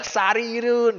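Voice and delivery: high, loud call of the word; shouted. Shown as a demonstration. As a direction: shout it out like spotting the house. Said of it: "langsung teriak".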